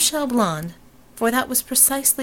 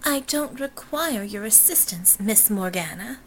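haughty heiress; 4 dB quieter than usual. Acted.

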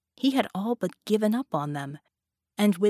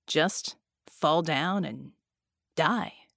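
slow, contemptuous taunt; sneering; 4 semitones lower, much slower than usual. Acted. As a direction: drag it out to wound her. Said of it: "the genie said, shaking his head".

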